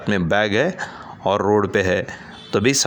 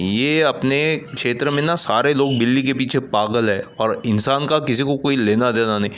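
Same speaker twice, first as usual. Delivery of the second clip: angry; 3 semitones higher than usual. Acted. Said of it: "गुस्से से कहता है".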